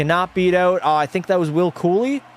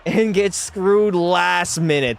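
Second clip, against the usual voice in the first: raised, slowed exasperated complaint; exasperated rant; 4 semitones higher, slower than usual. Real, not acted. Streamer complaining to chat about the loss, exasperated. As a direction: drag out the outrage.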